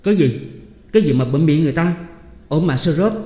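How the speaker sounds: loud indignant protest. A narrator's reading. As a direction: protest angrily at being hushed. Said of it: "vẫn trợn mắt nói quang quang". (cự nự quang quác)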